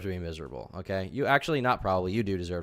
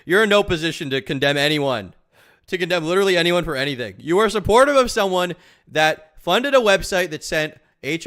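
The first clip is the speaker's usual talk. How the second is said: angry rant; 6 semitones higher, 9 dB louder than usual. Real, not acted. Ranting at Tipster.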